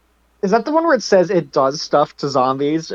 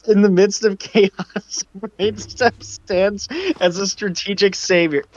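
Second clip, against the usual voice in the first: laughing read; 2 semitones higher, much slower than usual. Real, not acted. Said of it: "I need to try to do a Mister Hippo impression".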